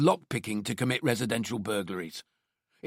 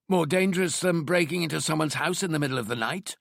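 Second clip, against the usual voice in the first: a higher, pointed disbelieving question; 6 semitones higher than usual. Acted. Detective doubting his boss's theory, incredulous and pointed. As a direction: challenge the idea as absurd. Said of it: "disbelief evident in his voice".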